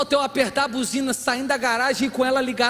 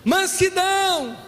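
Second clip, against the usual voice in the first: preacher crying out the fruits of the Spirit, drawn high; soaring proclamation; 8 semitones higher, much slower than usual. Real, not acted. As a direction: lift the words up and stretch them.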